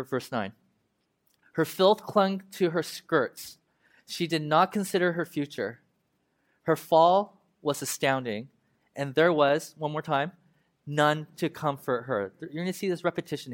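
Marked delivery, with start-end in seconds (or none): 1.5-9.7 slow, weighty reading of the lament; mournful Bible reading; solemn scripture reading. Acted. 10.8-12.3 drawn-out, solemn refrain; weighty reading of the refrain; slow scripture refrain. Acted.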